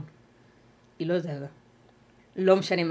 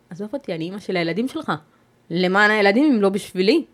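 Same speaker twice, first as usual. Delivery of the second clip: retold shout; 5 dB louder than usual. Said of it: "פה צעקתי".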